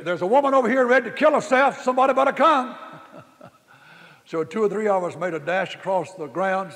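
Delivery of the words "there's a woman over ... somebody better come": high, loud alarm call broken by laughter; mock alarm, laughing; laughing retold alarm. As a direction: laugh through the panicked report.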